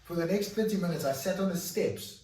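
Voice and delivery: telling it as the tears come back; emotional retelling. Real, not acted. Recalling the day he sobbed on the balcony steps, emotional. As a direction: voice lifted high and loud, close to tears. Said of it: "I was crying".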